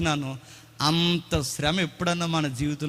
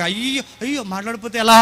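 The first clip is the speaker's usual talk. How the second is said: mock panic; 4 semitones higher, 4 dB louder than usual. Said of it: "ఏదో ఈడ buildup పెట్టి అడుగుతున్నాను".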